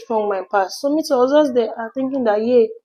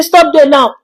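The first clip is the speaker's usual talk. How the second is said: mock shout; 5 semitones higher, 8 dB louder, slower than usual. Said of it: "I said".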